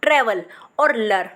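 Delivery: ट्रैवल और लर, said as two separate chunks; split into parts. Shown as a demonstration. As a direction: break ट्रैवल and लर apart. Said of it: "सबसे पहले बोलो". (शब्द को टुकड़ों में बोलो)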